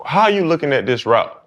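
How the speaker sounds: imitating a young receiver in New Orleans accent. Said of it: "trying to talk in my New Orleans accent".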